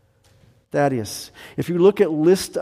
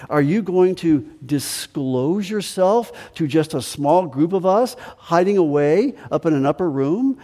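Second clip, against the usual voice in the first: raised, pleading questions to Jesus; questioning disciple; 3 semitones higher than usual. Retold or imitated. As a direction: press Jesus with rising questions. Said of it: "He is saying this to Jesus".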